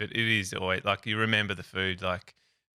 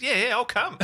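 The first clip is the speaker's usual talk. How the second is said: excited cop; 5 dB louder than usual. Retold or imitated. Retelling the eager cop.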